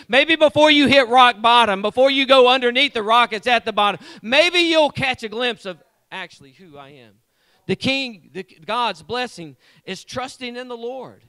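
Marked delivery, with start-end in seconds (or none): 0.1-7.1 much louder, driving the warning home; God preaching loud to a stubborn people. Acted. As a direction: belt it out as God's last warning. Preacher voicing God's warning.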